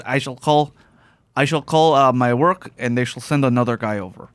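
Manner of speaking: formal Russian accent, a hint of Liam Neeson; light Russian accent, stiff phrasing.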